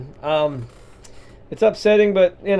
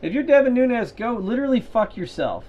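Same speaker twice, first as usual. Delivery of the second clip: high, loud, furious cursing; angry cursing; 8 semitones higher, 4 dB louder than usual. Acted. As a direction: spit the curses out at him. Cursing at a politician.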